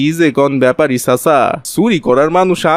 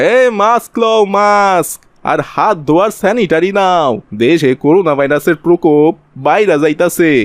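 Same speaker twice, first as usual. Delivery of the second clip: street hawker's call; 3 semitones higher than usual. Acted. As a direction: drum up buyers like a market vendor. Kalu hawks masks to the crowd. (বাজারে ফেরিওয়ালার মতো ডেকে ডেকে বিক্রি)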